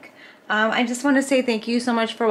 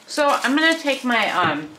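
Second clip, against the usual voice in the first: talking while chewing chips; mouth full; 3 semitones higher, 3 dB louder than usual. Real, not acted. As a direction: talk through a mouthful. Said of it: "I had some chips in my mouth".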